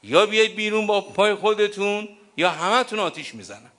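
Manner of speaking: preacher voices Omar threatening to burn the house; threatening shout. Retold or imitated. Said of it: "قال".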